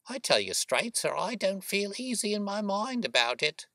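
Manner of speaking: high, anxious working woman's voice; uneasy boatman's wife. Acted. Voices Mrs Smith, uneasy.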